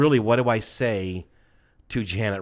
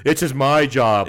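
laughing lament; 6 dB louder, slower than usual. Real, not acted. Mock lament.

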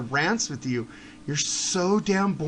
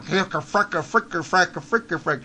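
Yosemite Sam; 2 semitones lower than usual. Retold or imitated. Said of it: "Stop using Yosemite Sam".

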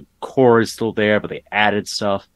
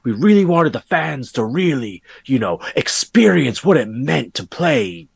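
hammed-up English accent, smug and a touch higher; terrible English accent; 3 semitones higher than usual. Mocking the game company's pitch in a terrible English accent. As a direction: put on a bad posh English accent to mock the company. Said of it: "That's a terrible English accent".

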